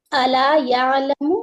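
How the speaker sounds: drawn-out tajweed recitation; slow Quran recitation. Shown as a demonstration. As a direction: recite slowly for students to follow. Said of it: "حمزہ فتحہ آ".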